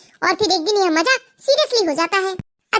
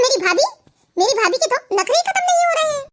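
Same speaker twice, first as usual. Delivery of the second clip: sarcastic; 4 semitones higher than usual. Acted. ननद ताना मारती.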